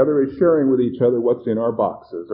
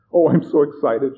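thrilled audience member, raised and loud; excited; 5 semitones higher, 7 dB louder than usual. A narrator's reading. Plump woman telling the audience she is thrilled, excited. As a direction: gush with excitement on reaching the stage.

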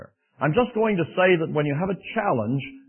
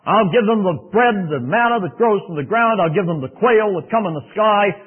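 voice of the Lord; 6 semitones higher, 6 dB louder than usual. Acted. The Lord reassuring Moses, loud and solemn. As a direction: promise it with weight. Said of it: "the Lord says to Moses".

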